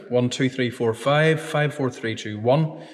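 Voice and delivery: steady counting into the microphone; mic check. Real, not acted. Engineer testing the microphone, counting steadily. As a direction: count evenly to test the mic.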